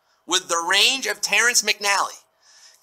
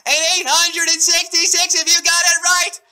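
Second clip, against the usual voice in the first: hyped shout; 8 semitones higher, 4 dB louder than usual. Real, not acted. Host hypes winners loudly.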